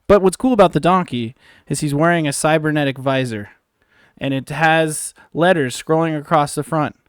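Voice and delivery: steady storyteller voice setting a tavern scene; game master narration. Acted. Dungeon master describing a tavern to players, narrating. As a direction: paint the scene for the players, then ask.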